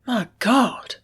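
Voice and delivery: a gasped exclamation of shock. A narrator's reading. Sloane realises who cut the ropes, gasping. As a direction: caught breathless by the realisation. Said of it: "gasped Sloane".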